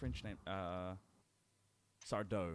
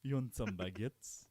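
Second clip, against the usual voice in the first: put-on French accent; 3 semitones higher, 6 dB louder, slower than usual. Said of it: "stereotypical French asshole".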